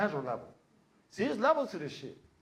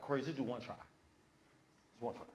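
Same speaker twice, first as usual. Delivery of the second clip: coaxing; 7 semitones lower, 12 dB quieter, faster than usual. Acted. Producers coaxing reluctant actor.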